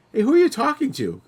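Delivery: high call up the stairs; calling upstairs. Retold or imitated. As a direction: call out to someone on another floor.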